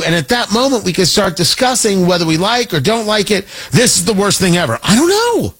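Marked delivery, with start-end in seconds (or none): 3.7-5.5 mock alarmed. Mocking pundit certainty flip.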